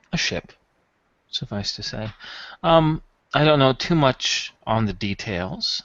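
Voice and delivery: measured and careful, picking words; lightly played smooth buyer; discreet customer.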